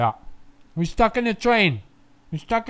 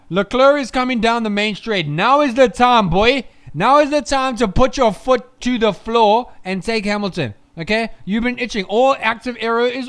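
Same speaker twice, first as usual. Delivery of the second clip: excited urging; 4 dB louder than usual. Real, not acted. Urging Leclerc on.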